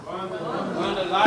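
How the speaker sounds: whispered, slow abundant life. Shown as a demonstration. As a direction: breathe it out softly.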